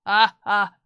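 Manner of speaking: loud, halting mock villain laugh; attempted menacing laugh. Shown as a demonstration. Streamer struggling to laugh like a villain, menacingly. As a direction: force out loud, separate evil ha-has. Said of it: "Do I do laugh menacingly?".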